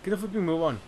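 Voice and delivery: a light cockney lad calling out; cockney character. Acted. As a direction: hail the boy like a cheeky cockney. Drippy voice again.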